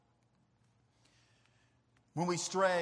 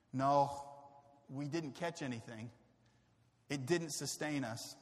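defeated disciples; 5 semitones lower than usual. Retold or imitated.

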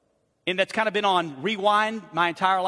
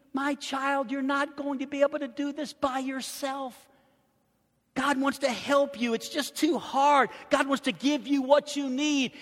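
preaching as Paul; 6 semitones higher, 3 dB quieter than usual. Acted. Preacher voices Paul encouraging Timothy.

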